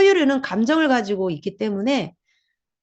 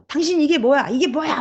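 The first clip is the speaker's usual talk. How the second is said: raised, higher mock scolding; angry outburst; 5 semitones higher than usual. Acting out someone venting anger at a spouse, mock angry. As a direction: snap at them like you've lost your temper. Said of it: "바로 화를 내죠".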